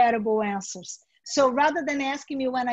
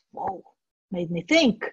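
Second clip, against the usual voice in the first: struck interviewee; 7 semitones lower than usual. Shown as a demonstration. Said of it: "reacts to good question".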